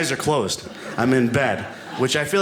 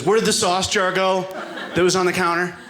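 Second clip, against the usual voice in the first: raised mock wife voice; wife asking; 5 semitones higher than usual. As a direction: ask with rising alarm. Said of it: "she goes".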